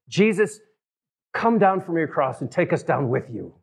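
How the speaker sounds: high-pitched mock demand easing down; mildly acted cursing. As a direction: act out the criminal taunting Jesus. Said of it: "cursed him and said".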